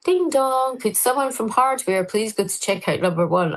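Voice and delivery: high, sing-song ding dong then announcer read; mock public address voice; store tannoy announcement. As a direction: imitate the shop tannoy chime and call. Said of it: "they used to go".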